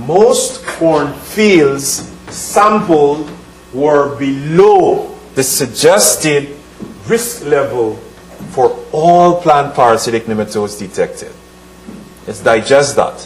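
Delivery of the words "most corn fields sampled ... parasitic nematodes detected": very slow, deliberate, drawn-out reading aloud. Reading an important passage aloud to listeners, very slow. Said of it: "I'm going to read this very slowly".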